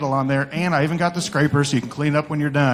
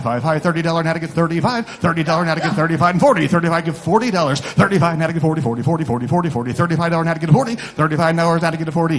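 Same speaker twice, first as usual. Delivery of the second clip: rapid rolling auction chant; auctioneer; 3 dB louder than usual. Acted. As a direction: rattle off bids like an auctioneer.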